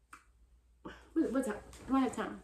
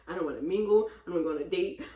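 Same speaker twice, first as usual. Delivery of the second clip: blowing off steam about dating; exasperated rant; 7 dB louder, faster than usual. Real, not acted. Fed-up vlogger ranting that she's done dating.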